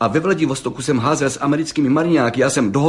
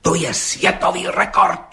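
higher, blurted out in excitement; agitated blurt; 7 semitones higher than usual. A narrator's reading. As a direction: burst out with it, worked up. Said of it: "vyhrkl rozčileně".

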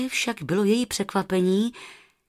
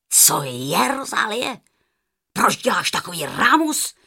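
snapping; 4 dB louder than usual. Acted. Grumpy aunt snaps at Rozárka for the noise, louder. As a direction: bark at the noisy girl. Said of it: "vybafla na ní".

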